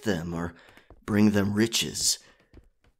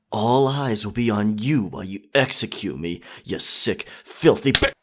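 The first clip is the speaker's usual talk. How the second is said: rising anger; 2 semitones higher, 6 dB louder than usual. Acted. Cornered captain insulting her captor.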